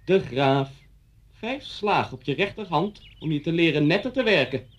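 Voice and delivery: imitated schoolmaster pronouncing sentence; stern teacher. Former pupil imitating teacher announcing punishment, sternly. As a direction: order the cane like a strict master. Voices teacher ordering caning.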